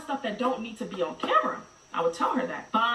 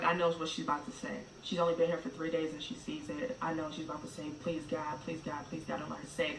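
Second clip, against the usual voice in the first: low, hushed pleading; praying softly that she won't say it; quiet dread; 4 semitones lower, 6 dB quieter than usual. Retold or imitated. Mother recalling her silent fear on the bench, hushed.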